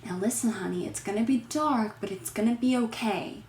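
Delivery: soft, hushed comforting voice; hushed reassurance. Retold or imitated. Boyfriend reassuring the little girl, hushed. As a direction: soothe the child quietly. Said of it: "Boyfriend is like".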